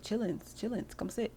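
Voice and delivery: put-on calling the kids. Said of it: "He's like".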